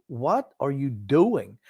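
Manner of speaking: slow, drawn-out exasperated question; retold disbelief, each word stretched out; exasperated yelling. Fan reliving talking to the goalie on screen, exasperated. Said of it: "I was yelling at the screen".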